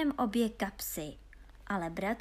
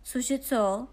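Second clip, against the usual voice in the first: puzzled question; 2 semitones higher, 4 dB louder than usual. Acted. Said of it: "zeptal se".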